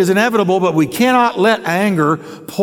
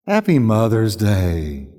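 wrong tone; 8 semitones lower, slower than usual. Shown as a demonstration. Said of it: "with the wrong tone".

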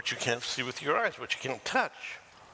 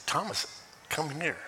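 loving; 3 semitones higher than usual. Shown as a demonstration. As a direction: call him over tenderly, with love. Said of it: "But it's loving".

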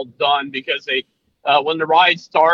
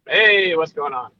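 subdued hello, less bouncy; low-energy greeting. Real, not acted. Cohost answers host's hello, subdued greeting. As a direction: greet without your usual bounce. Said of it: "you don't sound your happy, bumpy, bouncing off the walls".

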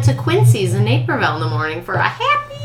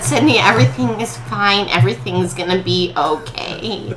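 soothing mom; 3 semitones lower, 6 dB quieter than usual. Retold or imitated. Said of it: "And she said".

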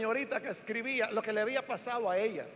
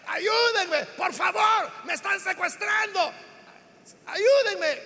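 imitating her shouts for help, higher and louder; raised-voice reenactment of a desperate plea; retold cry for help; 5 semitones higher, 5 dB louder, slower than usual. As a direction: call out as the pleading victim. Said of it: "comenzó a pedir ayuda y a gritar".

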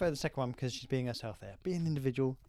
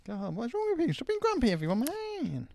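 mock scolding; 11 semitones higher than usual. Mock scolding grumpy listeners.

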